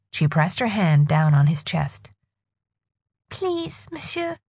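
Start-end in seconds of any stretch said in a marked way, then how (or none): 3.3-4.4 soft quiet plea. Acted. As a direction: plead under her breath. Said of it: "she said quietly".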